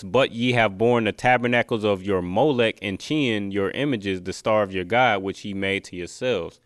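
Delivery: emphatic verse reading, easing off at the end; scripture reading. Acted. Preacher reads verse twenty-six, scripture reading. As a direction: read it out firmly, word by word.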